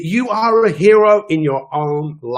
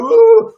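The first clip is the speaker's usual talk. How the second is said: sudden high, loud whoop; excited whoop; 6 dB louder than usual. Acted. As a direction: let out a big cheering woo. Mock panic, then whoop.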